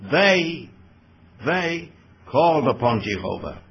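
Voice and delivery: single out "They" and repeat it before going on; stress on THEY. Shown as a demonstration. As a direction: hold up "They" as the key word. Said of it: "the plural pronoun includes the three".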